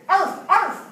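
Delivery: high, loud yaps; small dog bark. Shown as a demonstration. Teacher showing small dogs' sound, high yapping. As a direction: yap like a little dog. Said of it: "very small".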